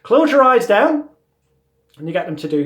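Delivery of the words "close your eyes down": mesmerizing. Shown as a demonstration. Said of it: "you tell the person to close their eyes down".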